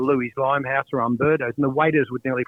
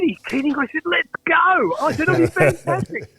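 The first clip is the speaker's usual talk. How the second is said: high, eager voice of his younger self; mock-excited, pitched well up; retold excitement; 14 semitones higher than usual. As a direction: play yourself thrilled at the invite.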